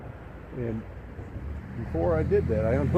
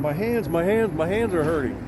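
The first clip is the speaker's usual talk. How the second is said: a bit higher, imitating pain; mock pained wife; 5 semitones higher than usual. Wife complaining to husband about rope burns, lightly pained. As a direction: lightly voice her burning hands. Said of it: "she's going".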